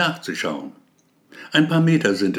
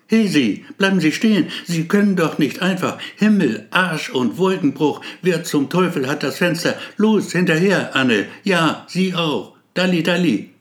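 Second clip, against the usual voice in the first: loud, high calls to stop; police officer yells at fleeing suspect to stop; shouting after him; 5 semitones higher, 4 dB louder than usual. Acted. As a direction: bellow orders at the escaping man.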